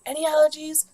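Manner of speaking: high, loud mock yell; retold yelling. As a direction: imitate staff yelling out a question. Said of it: "Like, they're yelling".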